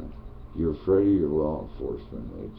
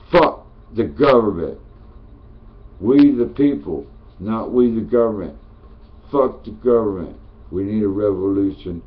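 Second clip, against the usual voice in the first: loud, higher furious rant; ranting shout; 4 semitones higher, 8 dB louder than usual. Real, not acted. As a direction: yell it at the people to wake them up. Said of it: "I gotta talk like this to make you listen".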